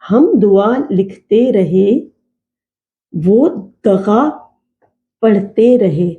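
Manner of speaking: slow, measured couplet recitation; reciting verse. Shown as a demonstration. Teacher reciting a couplet she writes out for students, slow recitation. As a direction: recite it slowly, pausing between phrases.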